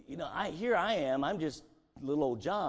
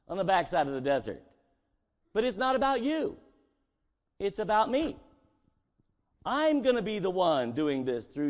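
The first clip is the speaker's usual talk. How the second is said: higher, louder, forceful reassurance; God reassuring; 5 semitones higher, 4 dB louder than usual. Acted. God answering Moses, higher and forceful.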